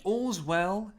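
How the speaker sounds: slow, grand theatrical reading; mock Shakespearean. Shown as a demonstration. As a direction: declaim it slowly like old theatre. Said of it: "That's not Shakespeare".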